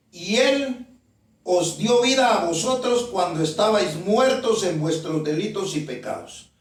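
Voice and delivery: measured Bible reading, each phrase set apart; deliberate scripture reading. Real, not acted. Preacher reads Ephesians to the congregation, deliberately. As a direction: read the verse out deliberately. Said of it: "se lo voy a leer únicamente despacio".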